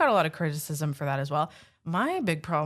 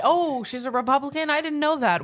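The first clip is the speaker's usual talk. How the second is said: high, loud mock Trump voice; playing Trump with a raised pitch; Trump impression; 8 semitones higher, 4 dB louder than usual. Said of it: "He said".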